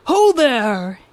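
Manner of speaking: loud calling shout. Acted. Lazy lad calling out to the governor's procession, shouting. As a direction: call out loud to passing riders. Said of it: "he shouted".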